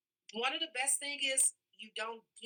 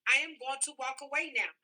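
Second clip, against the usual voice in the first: firm parent statement; 2 semitones higher, 4 dB louder than usual. Shown as a demonstration. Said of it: "enforce the statement".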